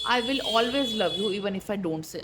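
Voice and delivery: slow, deliberate reading of the message; slow card message. Acted. Tarot reader voicing the partner's message to the viewer, slowly. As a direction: let each word land slowly.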